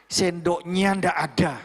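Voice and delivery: slow, measured firm reminder. Shown as a demonstration. Mentor modelling how to tell staff a spoon is missing, firm. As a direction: state it deliberately, without ranting. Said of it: "Bahasamu tegas".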